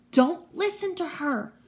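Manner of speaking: high-pitched urgent warning; shouted warning at moderate volume. A narrator's reading. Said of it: "Annabeth's voice shouted".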